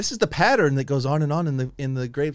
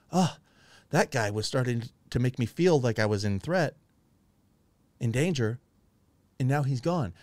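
softer, lower voice of relief; acted relief; 4 semitones lower, 4 dB quieter than usual. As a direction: play relieved that a threat has gone. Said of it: "She should be expressing relief".

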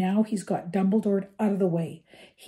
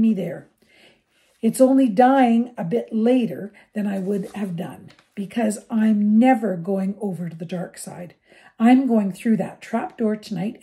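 higher and louder fierce plea; passionate outburst; 5 semitones higher, 7 dB louder than usual. A narrator's reading. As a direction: rage to make them see. Harry's impassioned outburst at friends.

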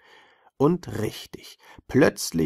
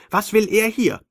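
high, loud angry scolding; squeaky alien; 6 semitones higher, 5 dB louder than usual. Acted. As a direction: keep squealing with fury. Sandmann rages at the Maikäfer.

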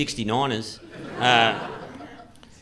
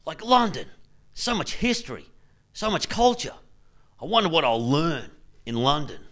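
starry-eyed wonder; 3 dB quieter than usual. Retold or imitated. Traveller daydreaming before the London trip, mild awestruck excitement. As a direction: lightly gush about London like a naive tourist. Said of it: "I thought".

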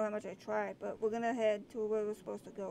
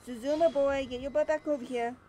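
calling out; 5 dB louder than usual. Real, not acted. Calling a character back.

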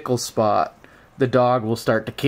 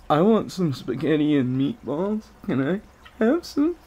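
voicing the dog; 7 semitones higher than usual. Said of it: "He says".

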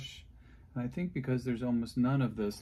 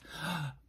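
mock gasp; 5 semitones higher, 5 dB quieter than usual. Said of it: "great intro, right?".

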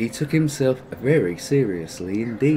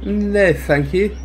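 polite; 7 semitones higher, 5 dB louder, slower than usual. Acted. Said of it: "said Bagheera politely".

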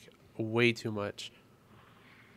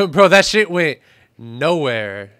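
laughing; 5 semitones higher, 16 dB louder, slower than usual. Real, not acted. Grenade fails, bursts laughing.

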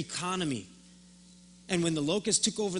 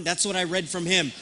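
usual speaking voice

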